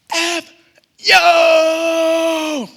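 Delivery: high, full-volume drawn-out shout; retold yell. Boy yells back at the car, long high shout. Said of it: "and I yelled".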